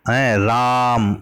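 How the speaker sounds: राम called with a stretched vowel; slow, lengthened राम as if calling; slightly drawn-out call. Shown as a demonstration. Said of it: "ये प्लुत स्वर की का संकेत है". (राम को खींचकर पुकारें)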